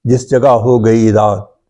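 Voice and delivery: measured, metrical mushaira delivery; poetry recitation. Acted. Poet shares his ghazal with appreciative friends, reciting. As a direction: recite each line in rhythm, repeating it for the listeners.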